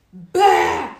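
plötsligt, högt "bä"; härmat skrämselrop. Retold or imitated. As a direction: hoppa fram och skräm någon. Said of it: "alltså hon hoppar fram varje gång". (högt imiterat skrämselskrik)

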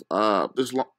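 talking through hiccups. Real, not acted. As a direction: hiccup breaking the word lo-. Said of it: "I got hiccups for some reason".

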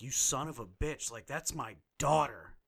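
lightly acted furious father; mock angry Gordon. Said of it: "he's just like".

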